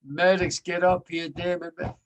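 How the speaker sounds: half-reenacted shout for help, fading at the end; screaming for medics. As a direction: call the medics urgently, then trail off. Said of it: "coming out and screaming".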